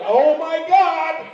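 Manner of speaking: high, slow, loud gasp of "Oh my God"; hammed-up horrified onlooker, drawn out; mock alarmed mall shopper crying out; shocked white bystanders. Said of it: "They're like".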